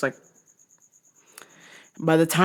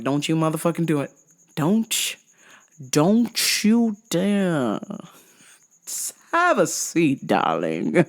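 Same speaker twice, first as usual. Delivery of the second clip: menacing warning; slower than usual. Retold or imitated. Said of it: "And I was like".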